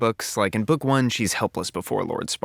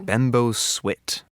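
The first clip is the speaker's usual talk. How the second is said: slow sound effect; much slower than usual. Shown as a demonstration. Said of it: "reading sound effects".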